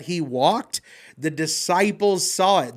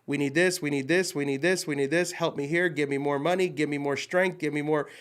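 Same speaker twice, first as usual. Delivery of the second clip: mock greedy prayer; 3 semitones lower, 5 dB quieter, faster than usual. Mocking a greedy list prayer.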